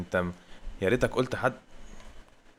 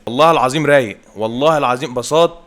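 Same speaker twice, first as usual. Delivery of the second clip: louder, swearing by God he's smooth; excited praise; 2 semitones higher, 7 dB louder than usual. Real, not acted. Gamer hyping his new player to viewers, excited and loud. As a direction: hype the player up to your viewers.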